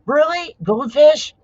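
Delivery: high, loud disbelieving question; genuinely taken aback; surprised. Real, not acted. Surprised at sour cream flavor.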